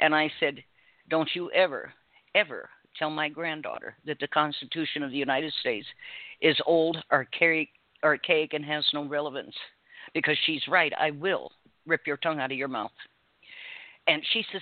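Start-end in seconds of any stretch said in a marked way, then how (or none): none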